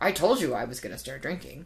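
mocking, snide, obnoxious jerk voice. Retelling a night of vodka drinking, the speaker does a jerk Matt voice. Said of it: "That's my jerk Matt voice".

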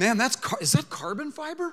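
put-on high, loud, geeky gushing voice.

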